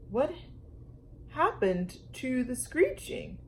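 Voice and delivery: astonished mom. A narrator's reading. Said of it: "asked her quite astonished mom".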